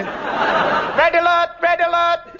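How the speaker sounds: urgent alarm call. Acted. Captain calls alert.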